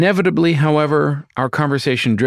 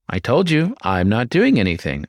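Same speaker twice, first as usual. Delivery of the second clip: defensive. Acted. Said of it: "I defended".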